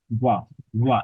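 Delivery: ওয়া as a w-like sound, tongue drawn near the teeth; ব without lip contact. Shown as a demonstration. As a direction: let ওয়া form with lips apart, tongue nearing the teeth. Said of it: "জিহ্বাটাও কিন্তু আপনার চলে আসছে দন্তের কাছে". (ঠোঁট না ছুঁইয়ে, জিহ্বা দাঁতের কাছে এনে ওয়া)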